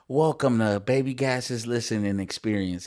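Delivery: robotic announcer voice; mock robot voice welcoming listeners. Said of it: "like a super robotic voice".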